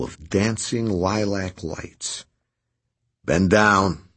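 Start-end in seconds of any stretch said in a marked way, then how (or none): 3.2-4.1 through gritted teeth. Acted. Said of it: "he ordered through his teeth".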